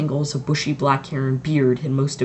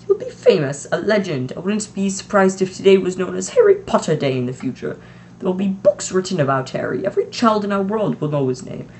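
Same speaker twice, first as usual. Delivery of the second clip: lightly voiced stern teacher, higher; a hint of an indignant witch; McGonagall voice; 5 semitones higher, 3 dB louder than usual.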